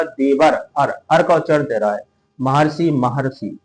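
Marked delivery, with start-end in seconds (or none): 0.0-0.9 "देवर अर" with the "अर" sounded out separately; AR sound shown. Shown as a demonstration. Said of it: "बोलने में भी पता लग रहा होगा". 2.4-3.6 "महर्षि" said slowly twice to expose the "अर" sound; slow teacher's repeat of "महर्षि", sounding its "अर"; AR sound shown. Shown as a demonstration. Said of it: "अर का उच्चारण आ रहा है".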